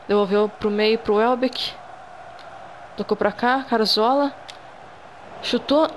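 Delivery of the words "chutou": rising to a high shout at the goal; explosive goal commentary. Real, not acted. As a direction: build from tense to an explosive goal call. Goal scored during live play. (narração de gol explosiva)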